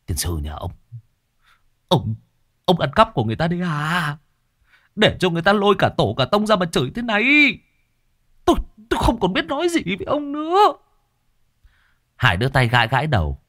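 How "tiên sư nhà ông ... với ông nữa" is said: grumbling. A narrator's reading. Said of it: "Cậu lầu bầu".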